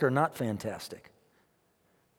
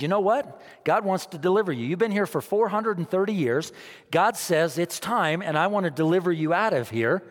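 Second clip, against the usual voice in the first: voicing Moses; 4 semitones higher than usual. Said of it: "and he said".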